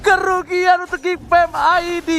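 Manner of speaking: excited play-by-play. Real, not acted. Big kill on Adam.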